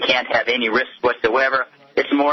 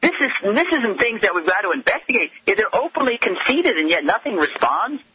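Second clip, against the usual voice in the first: outraged; 8 semitones higher than usual. Real, not acted. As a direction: pitch jumps higher, heated indignation. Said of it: "my tone of voice seems just quite outraged".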